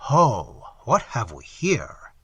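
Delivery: slow, thick monster's voice; thick loathsome voice. Acted. Entity gloating over the sinking moneylender, thick and slow. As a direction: drip the words out like molten tallow. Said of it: "began to speak in a thick and loathsome voice".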